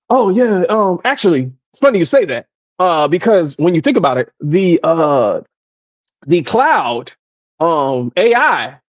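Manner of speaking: imitating a coworker spouting buzzwords; lightly voiced jargon-spouting coworker; mock buzzword rambler. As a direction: toss out jargon like it means something. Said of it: "And he talking fast".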